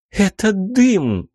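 put-on high, slow smiling girl voice. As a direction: say it with a smile. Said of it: "улыбнулась она".

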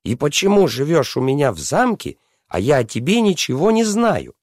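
high-pitched princess demanding answers; questioning princess. A narrator's reading. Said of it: "спросила она".

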